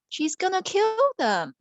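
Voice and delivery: high, hushed scary warning; spooky warning. Acted. Mother telling a bedtime story, a scary warning. Warning about a cruel princess.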